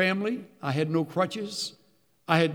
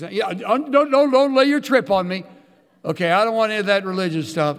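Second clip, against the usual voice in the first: louder mock refusal; retold annoyed brush-off; 3 semitones higher, 6 dB louder than usual. Bunkmate refusing Bible talk, imitated as an annoyed brush-off. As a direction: act out a bunkmate pushing back, voice raised.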